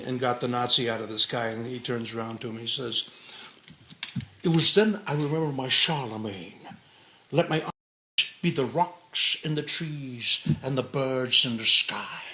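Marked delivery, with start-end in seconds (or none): 4.4-12.2 slow, lisping Scottish film-hero voice; the Last Crusade line, stretched out slowly; Sean Connery impression. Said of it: "of Sean Connery in".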